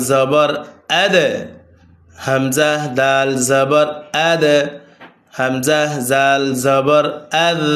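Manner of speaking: each syllable spelt slowly and clearly; careful pronunciation demo. Shown as a demonstration. Teacher demonstrating pronunciation, slow and careful. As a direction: show the exact pronunciation of each letter. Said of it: "আমি কিভাবে উচ্চারণগুলো বলে দিচ্ছি লক্ষ্য করবেন".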